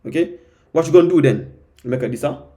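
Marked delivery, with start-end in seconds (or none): 0.7-1.5 imitated American street talk, louder; American street accent. Learner quotes a line from an American film, American street accent. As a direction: mimic a film guy's American street English. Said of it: "c'est l'américain un peu, un peu de la rue".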